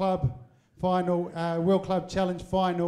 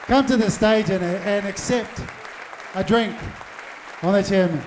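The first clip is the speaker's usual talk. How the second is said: calling out; 5 dB louder than usual. Real, not acted. MC keeps calling couple up.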